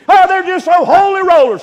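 mock sneer. World sneering at holy.

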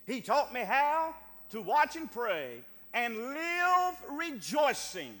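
slow, drawn-out hymn line; hymn recitation. Acted. Preacher reciting how Jesus taught him, swelling recitation. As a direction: swell on the hymn and stretch each phrase.

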